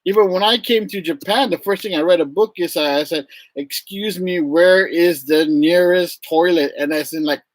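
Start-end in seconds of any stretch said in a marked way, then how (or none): 3.5-6.7 slow, careful phrasebook question; perfect polite phrasebook. Retold or imitated. Newcomer asking politely from a phrasebook, measured. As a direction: recite it politely from a book. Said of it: "perfect, polite Japanese".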